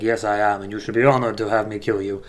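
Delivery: smug villain in a mock French accent. Bête Noire gloating to Von Hammer before the kill, in a light mock French accent. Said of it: "I'm gonna stop with the accent".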